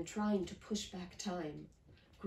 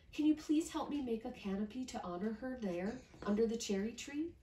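polite request; 4 semitones higher than usual. Acted. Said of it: "Miyuki asked politely".

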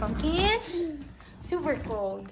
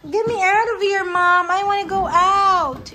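higher whiny toddler voice, pretending to be the baby; baby's voice; 5 semitones higher, 5 dB louder than usual. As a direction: speak for the little one, pleading to get out. Mom voicing the baby's complaint.

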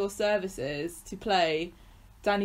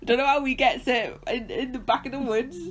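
higher, louder hammed-up Bristolian; broad country Bristolian caricature; mock Bristolian; 6 semitones higher, 3 dB louder than usual. Co-host riffing on backwoods radio in broad mock Bristolian. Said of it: "my best Bristolian accent".

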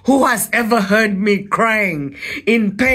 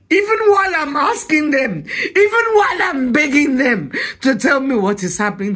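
broken laugh close to crying; half laugh, half sob of real pain; laughing through tears; 5 semitones higher than usual. Real, not acted. Recalling begging people for answers, laughing through tears.

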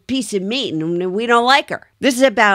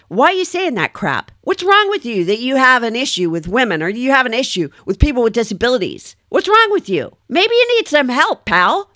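high-pitched, exasperated telling-off; indignant confronting; 5 semitones higher than usual. Acted. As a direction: challenge him like a disgusted colleague, pitch leaping. Continues imagined rebuke of the trooper.

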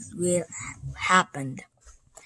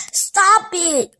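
high, loud plea; crying out; 10 semitones higher, 4 dB louder than usual. Acted. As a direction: yell it to stop the villain. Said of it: "Ricky cried".

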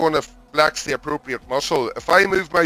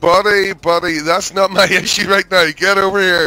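louder, higher, fed-up order; exasperated cop; 4 semitones higher, 5 dB louder than usual. Acted. Officer scolding the reckless driver, raised and exasperated. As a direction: raise your voice at him in disbelief.

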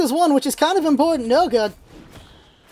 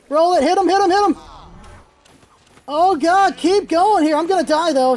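normal talking voice

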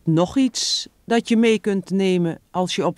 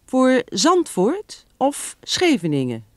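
higher, kindly asked question; open friendly; 8 semitones higher than usual. Acted. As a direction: ask it openly and kindly. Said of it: "vraagt vriendelijk".

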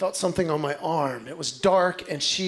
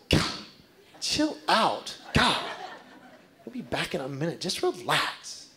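lightly voiced sleepy wife, softer; grumpy sleepy wife; 3 semitones lower, 6 dB quieter than usual. Wife half-asleep telling her husband to relax, softer grumble. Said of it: "She said".

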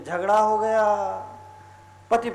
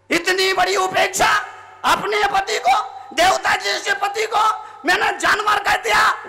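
remorse; 9 semitones higher than usual. Acted. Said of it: "उसे पश्चाताप हुआ".

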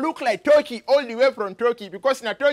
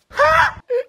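short, high-pitched laughing burst; high loud laugh; 5 dB louder than usual. Acted. Man after his emotional display, high loud laugh.

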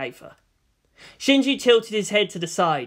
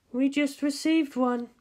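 numbly; 8 semitones higher, slower than usual. Acted. Ritsuko telling Misato, numb and slow. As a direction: say it as if stunned. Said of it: "Ritsuko added numbly".

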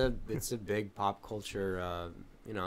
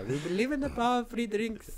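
mock sales pitch; 12 semitones higher than usual.

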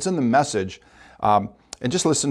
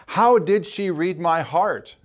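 wondering question; 5 semitones higher, much slower than usual. Acted. Preacher echoes the testimony's question.

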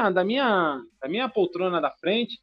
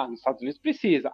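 fast, higher, offhand reply; quick casual answer, voice raised; own retold answer; 5 semitones higher, faster than usual. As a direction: toss off "Ah, nos Estados Unidos precisa" quickly, pitched up. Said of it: "Eu falei".

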